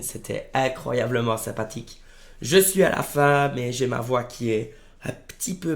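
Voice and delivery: hoarse, strained voice after a sore throat; talking through a hoarse throat. Real, not acted. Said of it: "j'ai la voix éclatée".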